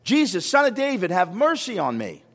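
imitated call, high at the start. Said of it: "He called out".

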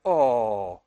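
mock cooing lady at a baby's cry; long, low falling coo. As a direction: imitate a woman melting over a baby. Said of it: "when a lady hears a baby cry, you're like".

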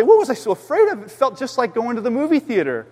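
lightly voiced visitor, pitched high; imagined relieved visitor. Visitor walking out of church, mock relief.

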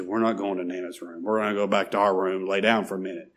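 a touch of worn-out parent; tired mother. Retold or imitated. Mother turning down her four-year-old, mildly tired. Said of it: "She's tired".

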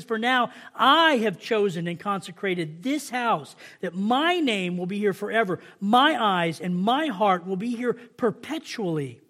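slow, deliberate Bible reading; scripture reading. Acted. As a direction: proclaim each phrase with weight. Reads scripture aloud.

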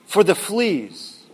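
slow, calm and unbothered; slow serene thanks. Acted. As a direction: say it slowly, perfectly at peace. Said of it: "Betsy continued on serenely".

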